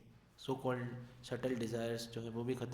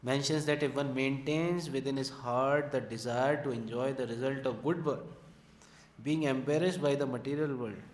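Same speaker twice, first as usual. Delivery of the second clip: very slow, weighty reading aloud of commentary; slow scripture reading; 4 dB louder, much slower than usual. Acted. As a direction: read every word out slowly and carefully. Reads purport in class.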